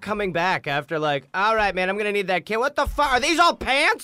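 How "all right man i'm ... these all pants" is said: rising shocked disbelief, higher and louder; mock outrage. Customer shouting at tailor over pants, mock outrage. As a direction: play the customer stunned at all pants. Imagined buyer finding pants.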